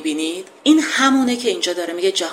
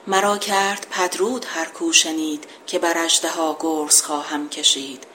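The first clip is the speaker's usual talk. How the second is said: measured epic verse reading; poem recitation. Acted. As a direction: declaim the couplet like an old epic.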